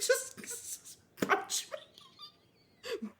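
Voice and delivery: very slow, high, hushed demon; drawn-out demon plea. Pretend. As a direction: stretch it out like an eerie demon. Mock demon staring at you.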